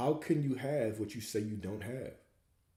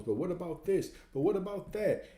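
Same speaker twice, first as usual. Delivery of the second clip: mock whining; 9 semitones higher than usual. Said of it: "he was telling all of his problems".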